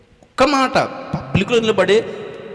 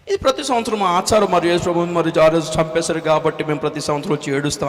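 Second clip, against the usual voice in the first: elder's reply; 4 semitones lower than usual. Retold or imitated. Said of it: "ఆయన అంటాడు".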